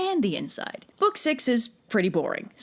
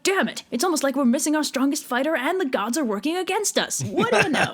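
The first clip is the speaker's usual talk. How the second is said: higher, exasperated sarcasm; sarcastic frustration; 5 semitones higher than usual. Acted. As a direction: throw your hands up. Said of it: "So Agamemnon's like".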